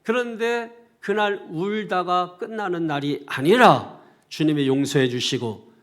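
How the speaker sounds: loud, emphatic sermon climax; forceful preaching. Real, not acted. Preacher proclaims a new start to the congregation, forceful preaching. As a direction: proclaim it in weighty, punched phrases.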